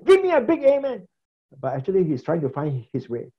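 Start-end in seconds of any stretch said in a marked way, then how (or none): 0.1-1.1 high shouted call for an amen; roaring preacher. Retold or imitated. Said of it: "keep shouting and then let people say".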